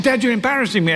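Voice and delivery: mortified at dad; embarrassed teenage daughter. Retold or imitated.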